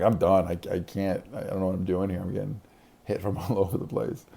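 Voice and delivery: loud, exasperated re-enacted quitting; fed-up outburst. Gamer retelling his outburst to his brother, loud and fed up. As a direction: act out giving up in loud frustration.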